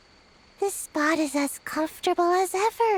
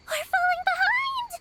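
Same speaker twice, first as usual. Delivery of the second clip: much higher, urgent cry; urgent call; 12 semitones higher than usual. Acted. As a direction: hurry your partner along. Urging a lagging companion.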